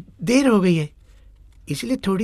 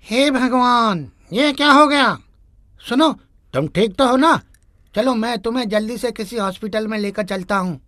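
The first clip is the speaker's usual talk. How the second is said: shocked panic; 4 semitones higher than usual. Acted. Driver panics over the boy he hit, horrified.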